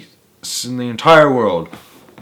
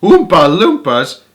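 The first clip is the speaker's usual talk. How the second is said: loud, higher shout; 6 semitones higher, 6 dB louder than usual. Acted. Visitors shouting the name in astonishment, loud and high. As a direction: call the name out in wonder. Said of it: "everyone shouted at once".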